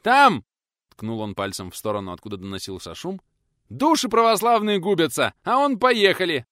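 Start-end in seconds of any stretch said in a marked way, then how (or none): 0.0-0.4 high, loud exclamation; shout. Acted. Pointing, shouting. 3.7-6.5 high, loud indignation; outraged shout. Acted.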